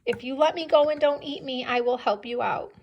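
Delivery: lightly voiced mouse making a deal; bargaining mouse. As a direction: bargain hurriedly for your life, lightly acted. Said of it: "He's trying to say".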